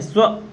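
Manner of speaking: स्व said as one syllable; demonstrating sva. Shown as a demonstration. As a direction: sound out स्व slowly and clearly. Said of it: "जब हम स्व की ध्वनि बोलते हैं".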